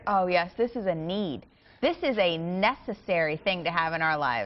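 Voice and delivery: dry, mock-serious agreement; sarcastic. Real, not acted. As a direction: say it with heavy sarcasm. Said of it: "I'm being sarcastic".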